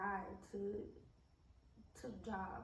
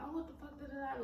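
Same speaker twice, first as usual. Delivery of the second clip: retold yelling; 5 semitones higher than usual. Roommate cursing at her after being woken, mock yell. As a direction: imitate her cursing in a raised pitch. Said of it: "like, yelling and cursing at me".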